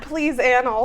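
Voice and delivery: "annals" said with short a, softly; pleading correction. Shown as a demonstration. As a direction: beg them to say "annals" short. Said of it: "For the love of God".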